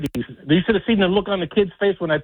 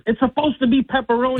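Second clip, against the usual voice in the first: angry retort; 6 semitones higher than usual. Retold or imitated.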